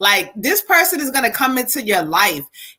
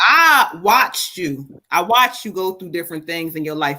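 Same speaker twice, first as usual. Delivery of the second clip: choked up; 6 semitones lower than usual. Retold or imitated. Medium relaying her late father's tearful words, choked up. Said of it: "he getting choked up".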